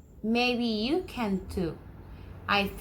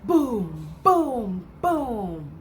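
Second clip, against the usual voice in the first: three resonant falling booms; thunder booms; much slower than usual. Shown as a demonstration. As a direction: imitate thunder for the children. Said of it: "How does the thunder sound?".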